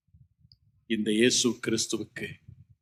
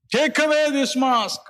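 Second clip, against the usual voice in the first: very slow, high drawn-out anguished plea; 4 dB louder, much slower than usual. Retold or imitated. Jesus begging God before the cross, slow high anguished plea. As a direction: stretch each word as a cry of agony. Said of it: "இவ்வாறு கதறினார்".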